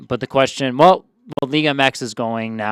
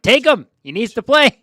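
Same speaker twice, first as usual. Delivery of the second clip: Dortmund voice; 11 semitones higher, 8 dB louder than usual. Retold or imitated. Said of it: "I'm sure Dortmund are like".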